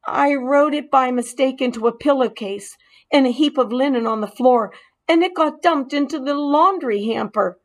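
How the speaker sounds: rushing to explain; lightly voiced mouse Ralph. Mouse explaining the mishap to the boy, hurried.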